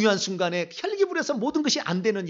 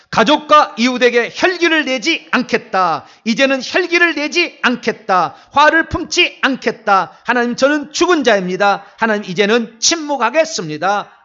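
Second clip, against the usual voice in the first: loud, raised-pitch proclamation; forceful declaration; 6 semitones higher, 12 dB louder, slower than usual. Real, not acted. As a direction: declare it like a solemn vow, hitting each phrase hard. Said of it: "선포 다섯 가지".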